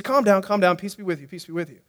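hushed calming. Acted. Jesus hushing his celebrating disciples, quiet and soft. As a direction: bring the room down gently.

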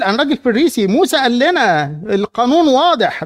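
strict Pharisee declaring; stern Pharisee. Acted. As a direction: lay down the law, unbending. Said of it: "راجل صارم".

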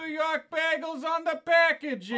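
high, loud, indignant retort; indignant shout. Acted. Shop owner shouting back at a fussy customer, offended.

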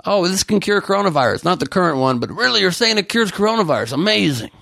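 mock amazed, high voice; acting dumb. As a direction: fake wide-eyed wonder. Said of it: "so he's acting dumb".

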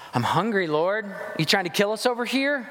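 high complaining whine at God; whiny grumbling. Retold or imitated. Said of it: "Let me talk about some grumbling".

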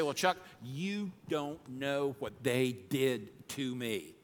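slow, whiny aggrieved listener; mild mock whine of a wronged listener; hurt complaint. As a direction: plead your grievance slowly. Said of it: "And you say".

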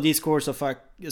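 a hint of an irate player; quoting an angry complaint. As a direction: replay the cut-off curse to the umpire. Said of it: "Ja, han sa".

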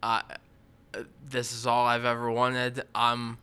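earnest contestant confessional; reality tv confessional. Pretend. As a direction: play it like a sincere reality show contestant. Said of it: "what would be your story if you're, like, being interviewed".

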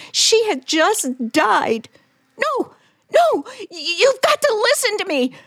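high-pitched frightened pleading; desperate pleading. Acted. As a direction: beg him to believe you, voice climbing.

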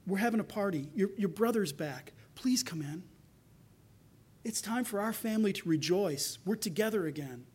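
soft, gentle begging, dropping to a whisper; a father coaxing his son in quietly; pleading father. Retold or imitated. Father begs his son to come inside, softly pleading. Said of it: "he begs his son".

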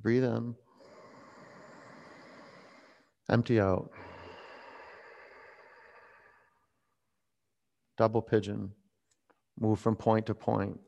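soft, spaced-out yoga cues; softly spoken, unhurried pose instructions. Real, not acted. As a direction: guide the class quietly, with long pauses. Leads yoga poses.

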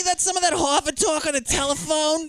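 high put-on caller voice; mock high Punchy voice. Friend imitating Punchy on the phone with him. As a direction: chirp it like a ditzy phone caller. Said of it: "she's just calling him at home".

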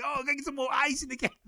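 high, breezy put-on voice; cheeky mock request. Mocking himself asking marina cafe for ice, in a high breezy voice. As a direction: ask sweetly as if it's owed.

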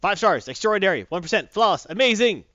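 loud, punchy superlatives; emphatic praise. Real, not acted. Host explaining the top rating, loud emphatic praise. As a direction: hit each word, rising to a big finish.

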